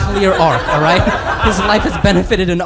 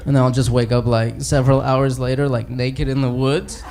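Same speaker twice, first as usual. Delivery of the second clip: sheepish Bruce Banner; 6 semitones lower than usual. Acted. Banner voiced low, sheepish.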